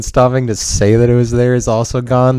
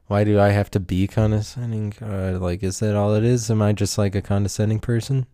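quiet self-doubt; 6 dB quieter than usual. Acted. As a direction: question yourself under your voice. Quiet self-doubting aside after self-scolding.

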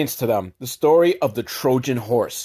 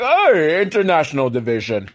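put-on Russian accent; 3 semitones higher than usual. Henchman posing as FBI to suspicious mom, mock Russian accent. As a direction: lightly imitate a Russian bluffing his way through. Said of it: "thick fucking Russian accent".

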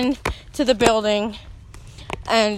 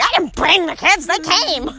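defensive wife; 6 semitones higher than usual. Acted. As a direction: snap back, a bit hammed-up. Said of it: "She's like".

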